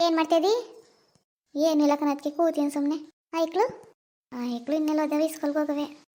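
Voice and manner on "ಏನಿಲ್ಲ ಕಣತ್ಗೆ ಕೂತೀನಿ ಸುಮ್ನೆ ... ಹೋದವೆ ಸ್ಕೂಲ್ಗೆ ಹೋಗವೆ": subdued, downcast. Acted. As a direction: answer listlessly, letting the voice drop softer. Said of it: "ಯಾಕೆ ಸಪ್ಪಗ್ ಮಾತಾಡ್ತಾ ಇದೆಯಲ್ಲ". (ಸ್ವಲ್ಪ ಸಪ್ಪಗೆ)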